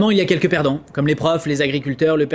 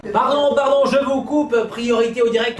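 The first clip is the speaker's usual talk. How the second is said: urgent interruption; 7 semitones higher than usual. Acted. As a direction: cut in fast like a news anchor. Host cuts in urgently.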